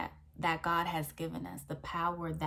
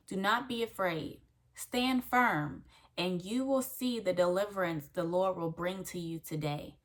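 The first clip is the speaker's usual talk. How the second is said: proclaimed scripture; 3 dB louder than usual. Acted. Reading Exodus verse aloud.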